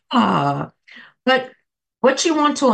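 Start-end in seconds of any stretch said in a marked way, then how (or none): 0.1-0.7 길게 내쉬는 한숨 소리; sigh out. Shown as a demonstration. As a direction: let the breath out with an audible sigh. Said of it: "So we go".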